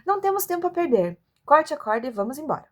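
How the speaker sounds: urgent. Acted.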